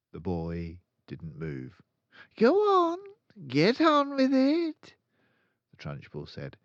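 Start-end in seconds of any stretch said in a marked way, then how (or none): 2.4-5.0 high, loud, slow bark of a tyrant headmistress; bullying command. A narrator's reading. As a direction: hammer the order at him. Trunchbull bullying the boy.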